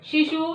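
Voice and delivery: शिशु with a held oo at the end; teacher showing that शिशु ends in oo; final उ sound. Shown as a demonstration. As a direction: draw out the closing oo of शिशु. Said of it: "last में इसकी आवाज आई उ की".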